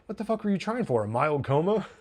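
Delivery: high-pitched retold disbelief; mock incredulous. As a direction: imitate someone who can't believe it. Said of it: "Stevie is just incredulous".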